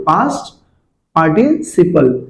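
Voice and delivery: पास्ट, then a pause, then a slow पार्टिसिपल; teacher spells out पास्ट ... पार्टिसिपल slowly; split slowly. Shown as a demonstration. Teacher to kids, splitting पास्ट and पार्टिसिपल slowly for recall. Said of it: "यहाँ पे क्या बेटा".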